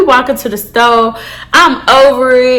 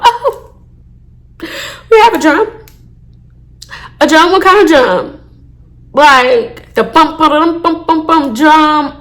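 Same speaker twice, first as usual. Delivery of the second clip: incredulous mockery. Mocking officer's drum question.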